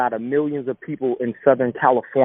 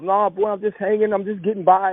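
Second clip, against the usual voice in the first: casual dad; 5 semitones higher than usual. Retold or imitated. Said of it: "like nothing's wrong".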